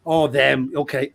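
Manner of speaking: low, unimpressed acceptance; imitated knowing resignation. Officer who's dealt with the British embassy before, resigned. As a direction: drop down as a weary official who knows them.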